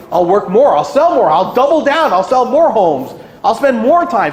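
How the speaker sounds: hammed-up hustle mantra; mock frantic agent. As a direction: play the agent doubling down in a panic. Agents' frantic inner plan.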